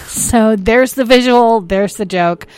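giggling at his own joke. Real, not acted. Host giggling at his new microphone, laughing. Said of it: "the reason I'm giggling".

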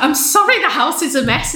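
high-pitched weepy apology, played for laughs; mock tearful. New mum apologises to the midwife, mock tearful voice. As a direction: imitate yourself blubbing an apology.

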